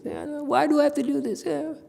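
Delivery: a teacher mimicking a pupil who wants an easy way; mock whining. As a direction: act out a student sulking about the effort. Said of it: "you whine".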